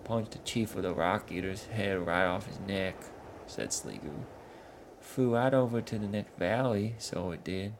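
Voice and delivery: a dim troll explaining his chief; northern troll grumbling. Acted. Sligu boasts of Yetu.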